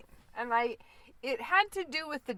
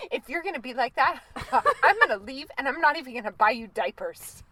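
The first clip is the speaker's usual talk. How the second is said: huffy scolding; 5 dB louder than usual. Retold or imitated. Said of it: "she finally huffed at him".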